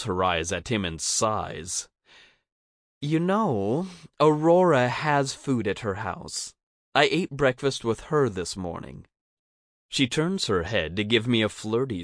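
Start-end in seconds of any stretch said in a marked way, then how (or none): 3.0-9.1 higher, pointed reply in a character voice; higher-voiced teasing retort; Cricket teasing. A narrator's reading. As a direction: lift the voice into a lighter character, answering back. Voices Cricket answering Theo.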